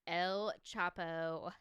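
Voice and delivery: teasing, stretched-out Anglo pronunciation; mocking white accent. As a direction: mimic a very white American saying Spanish. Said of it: "You sound so white when you said that".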